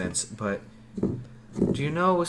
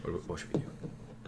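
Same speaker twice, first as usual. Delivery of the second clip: hushed whisper; 5 semitones lower, 12 dB quieter, slower than usual. Real, not acted. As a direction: whisper it urgently. Party sneaking at night.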